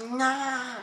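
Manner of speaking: lightly voiced hero grunts; a half-hearted go at voicing Link; mild Link voice act. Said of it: "I'm just trying to voice act Link".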